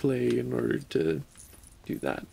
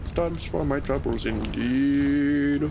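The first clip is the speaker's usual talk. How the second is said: lightly voiced grand gentleman; a hint of a haughty lord; mock posh aside; 2 semitones lower than usual. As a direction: say it like a pompous aristocrat.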